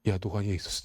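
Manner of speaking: soft and low, said to yourself; a hushed plea kept inside; silent inner prayer. Retold or imitated. Pastor praying inwardly while a woman shouts, soft and low. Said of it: "dalam hati saya".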